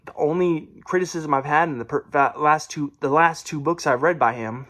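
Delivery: stumbling over the words; stuttering. Real, not acted. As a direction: trip and restart mid-phrase. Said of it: "sorry, a little stutter there".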